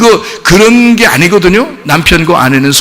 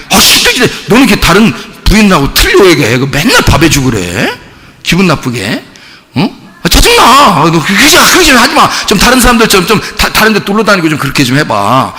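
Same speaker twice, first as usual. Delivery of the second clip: 신경질 내는 남편. Acted. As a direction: nag her in exasperation. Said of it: "막 신경질 내?". (짜증 섞어 타박하는 남편 말투)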